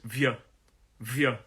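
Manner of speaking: "vieux" as a short vyuh; clipped-off word ending "vieux", rhyming with duh; last syllable isolated. Shown as a demonstration. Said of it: "that last bit is".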